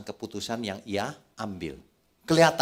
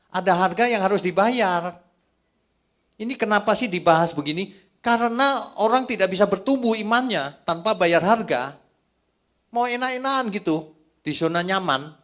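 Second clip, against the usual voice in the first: high, loud sermon delivery; forceful preaching; 11 semitones higher, 8 dB louder than usual. Acted. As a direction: drive the point home to the congregation, loud and high.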